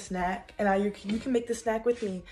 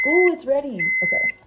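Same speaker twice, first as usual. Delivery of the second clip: high, loud excited ooh; 8 semitones higher, 6 dB louder than usual. Real, not acted. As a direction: squeal that it's ready. Oven done.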